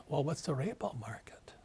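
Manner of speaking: whispered, puzzled average-guy voice; mock the confused man on the street in a hush; clueless average guy. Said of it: "And the average guy goes".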